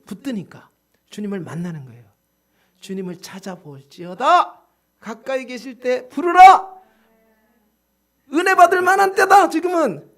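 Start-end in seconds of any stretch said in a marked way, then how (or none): 2.8-6.8 slow declaiming that builds to a shout; scripture proclamation. Acted. Preacher declaims a scripture command. 8.3-10.1 high, very loud proclamation; preaching shout. Real, not acted. Preacher proclaims at full force.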